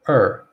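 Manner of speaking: isolated "er" with r-coloured vowel; er sound demo. Shown as a demonstration. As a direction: sound out "er" for learners. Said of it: "it's pronounced like this".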